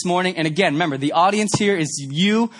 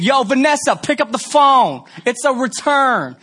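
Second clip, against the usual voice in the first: a hint of a brassy Chicago cashier, higher; Chicago cashier on intercom; 4 semitones higher than usual. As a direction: call over the store speaker with attitude. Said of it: "In Chicago, this is what you hear".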